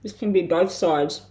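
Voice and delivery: talking with mouth full; speaking through a mouthful of food. Real, not acted. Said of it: "Sorry for talking with my mouth full".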